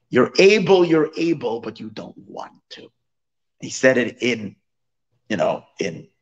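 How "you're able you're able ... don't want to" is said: a retold scold, half-shouted then trailing off; scolding them, then letting it fade; mock yell. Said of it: "he yells at them".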